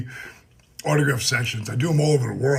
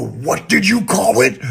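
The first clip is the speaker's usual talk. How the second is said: mock challenge; 5 semitones higher, 7 dB louder than usual. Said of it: "when I go".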